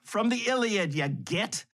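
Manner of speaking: high-pitched mock shout from the crowd; retold audience yell, starting high and dropping; imitated heckler's yell. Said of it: "This guy yells from the audience".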